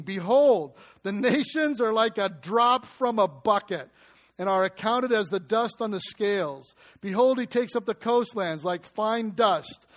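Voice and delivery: solemn, measured reading of scripture. Acted. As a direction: read it out like a prophet's proclamation. Reads Isaiah passage aloud.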